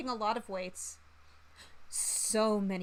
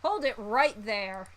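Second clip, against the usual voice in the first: commanding halt; 5 dB louder, slower than usual. Acted. Colonel interrupts a confession.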